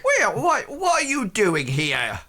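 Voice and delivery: put-on high, loud Welsh-accented challenge. Blacksmith turning on the man in disguise, loud Welsh challenge. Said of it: "Welsh accent".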